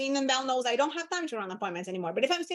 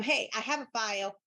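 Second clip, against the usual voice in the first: assumptive; 2 semitones lower than usual. Shown as a demonstration. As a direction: tell them, don't ask. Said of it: "You're telling them".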